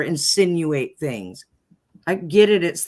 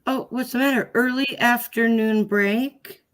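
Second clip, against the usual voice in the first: sarcastic, raised-pitch questioning; mocking disbelief; 5 semitones higher than usual. Real, not acted. Mockingly echoes the judge's break request.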